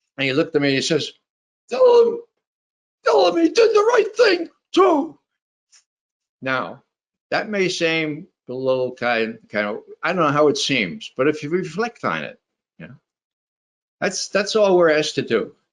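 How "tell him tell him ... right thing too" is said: put-on very high-pitched very old man voice. Retelling what a very old priest said: imitating Dan Berrigan as very old. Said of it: "he talked like this".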